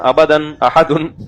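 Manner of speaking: slow sing-song recitation of अबदन अहदुन; children's recitation. Retold or imitated. Children reciting a lesson, slow chant. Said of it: "जैसे बच्चे कह रहे होते हैं ना".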